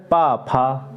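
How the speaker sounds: पा light, फा with a strong puff, slowly; slow aspiration drill. Shown as a demonstration. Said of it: "अल्प प्राण में कम जोर देना". (धीरे से पा हल्का, फा जोर से)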